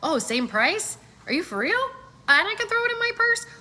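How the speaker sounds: rising into giddy disbelief; excited customer. Pretend. Customer talking herself into buying, growing excited. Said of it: "Now I'm like".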